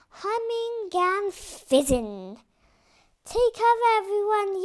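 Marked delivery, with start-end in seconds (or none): 3.2-4.6 urgent shouted warning; yelling. Acted. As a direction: shout to the whole crew. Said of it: "yelled Max".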